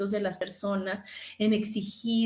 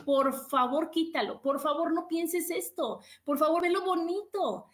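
pleading body; 5 semitones higher than usual. Retold or imitated. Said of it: "te están diciendo casi con señales".

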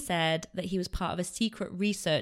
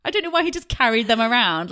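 talking fast through laughter; laughing; 5 semitones higher, 8 dB louder, faster than usual. Real, not acted. Host cracking up to her co-host over the pants. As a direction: giggle the words out loud.

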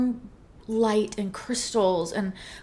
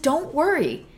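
coaxing friend; 4 semitones higher than usual. Retold or imitated. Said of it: "And she said".

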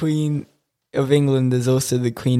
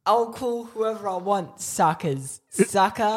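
cheeky defiance; 6 semitones higher than usual. Pretend. Defiant joking banter.

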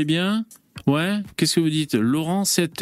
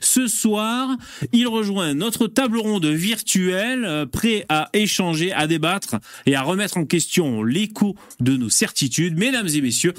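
grand entrance announcement. Acted. Host's grand guest introduction.

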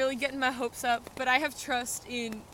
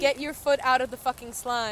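exasperated order; 8 dB louder than usual. Real, not acted. Telling friend to leave slime.

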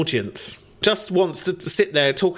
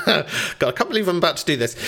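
rushed, laughing through the words; a real laugh breaking in as you hurry; 2 semitones higher, much faster than usual. Real, not acted. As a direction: giggle as you race through it. Embarrassed explaining douching.

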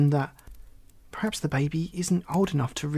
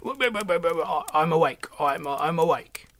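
spluttering toad jolted from sleep; startled awake; 3 semitones higher than usual. A narrator's reading. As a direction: stammer awake, high at first, then settling. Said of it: "woke up with a snort".

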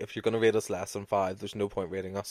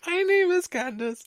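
much higher, stiff robot delivery; mock robotic voice. Host repeats the chain post line, mock robotic voice. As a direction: squeak it like a robot. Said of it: "the robotic voice".

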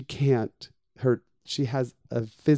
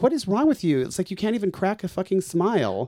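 retold confrontation; 5 semitones higher than usual. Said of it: "And I said".

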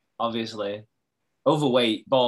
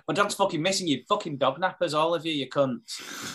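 angry accusation; 3 semitones higher than usual. Retold or imitated. Acts out neighbour's angry accusation.

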